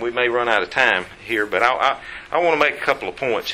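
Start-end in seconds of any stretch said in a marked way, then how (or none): none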